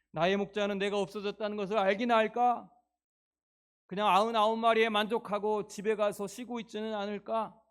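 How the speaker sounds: loud, rising worried questions; anxious lost sheep. Acted. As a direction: cry out the sheep's fear of being forgotten. Sheep's anxious inner voice, preached.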